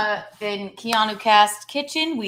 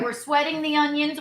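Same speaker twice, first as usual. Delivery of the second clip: raised-pitch kitchen announcement; excited announcement; 6 semitones higher than usual. Pretend. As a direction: announce the step with gusto. Mock announcement, building on repeat.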